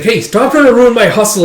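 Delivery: high, loud complaint; acted exasperated objection; indignant protest. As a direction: whine at a meddling big brother. Younger brother protests at teasing.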